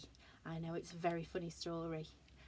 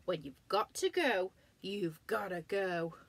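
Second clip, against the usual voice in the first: firm giraffe; 5 dB louder than usual. Acted. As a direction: lay down the rule. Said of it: "said Giraffe".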